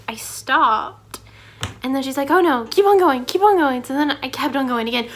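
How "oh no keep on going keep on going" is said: louder, higher mock-teacher urging; imitating insistent teacher. Teacher urging a student to continue, retold in louder insistent voice. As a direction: urge it on like a pushy teacher.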